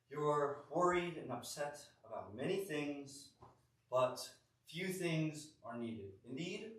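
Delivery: lightly played wise teacher, unhurried; Jesus. Jesus answering upset Martha, mildly acted measured wisdom. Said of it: "answers in the most Jesus way possible".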